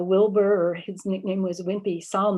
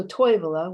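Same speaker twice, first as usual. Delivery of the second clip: Toivola with the stress on TOI; first-syllable stress; 5 dB louder than usual. Shown as a demonstration. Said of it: "the first syllable of every word sometimes is stressed".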